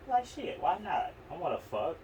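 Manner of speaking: mock eager. Retold eager inner voice.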